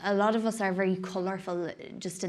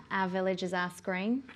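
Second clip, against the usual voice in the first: Australian accent. Shown as a demonstration. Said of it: "whenever I do Aussie, though, I go into Kiwi".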